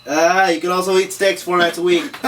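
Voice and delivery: laughing through the corrected line. Real, not acted. Actor cracking up at his own flub, laughing.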